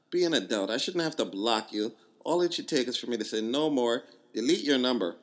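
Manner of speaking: loud, heated mock Jamaican accent. Reading her furious text in a heated Jamaican accent. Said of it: "my Jamaican accent is pretty good".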